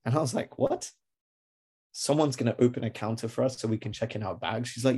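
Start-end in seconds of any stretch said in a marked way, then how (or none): 0.6-0.9 very high-pitched startled question; incredulous. Acted. Traveller hearing a counter will open, incredulous. Disbelief at supervisor's news. 1.9-4.7 incredulous echo. Acted. Traveller checking the supervisor's news, incredulous.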